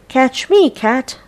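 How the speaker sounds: mouse voice. Acted. Mouse character voiced in story.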